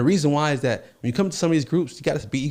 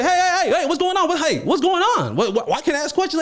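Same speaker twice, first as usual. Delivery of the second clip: high protesting voice; 14 semitones higher than usual. Retold or imitated. Himself protesting in retold argument.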